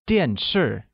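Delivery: 电视 with a fall on each syllable; two separate falls, 电 then 视; falling tones. Shown as a demonstration. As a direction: drop the pitch on both 电 and 视. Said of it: "uses the falling tone on both A and I".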